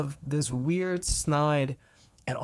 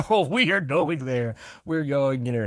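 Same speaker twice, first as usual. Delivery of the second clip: laughing; 6 dB louder than usual. Real, not acted. Laughing about the topic.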